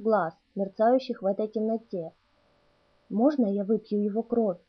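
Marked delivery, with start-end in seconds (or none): 3.1-4.6 sinister rustling voice. Acted. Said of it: "прошелестел зловещий голос".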